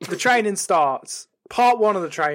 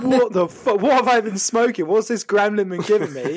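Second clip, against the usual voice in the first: high, incredulous outburst; higher-pitched, worked-up disbelief; mock bewilderment; 4 semitones higher, 3 dB louder than usual. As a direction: act out baffled shock. Acted shock at own severed head.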